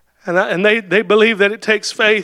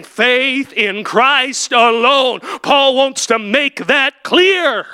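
preaching at full force; 3 semitones higher, much slower than usual. Acted. Preacher to his congregation, drawn-out shouted climax. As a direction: lean on every word, then drop away on nothing.

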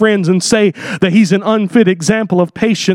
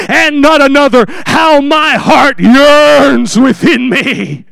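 building preaching climax; slower than usual. Acted. Preacher proclaiming Job's hope in the Redeemer, swelling to a shout. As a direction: build the verse to a triumphant peak.

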